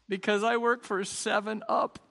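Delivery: lightly acted tearful businessman; a touch of fake blubbering for the punchline; mock crying. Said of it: "he starts to cry like a baby".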